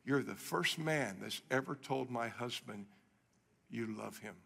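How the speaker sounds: tearful wife whispering to the pastor; retold whisper. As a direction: whisper it as the weeping wife did. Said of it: "she whispers to me".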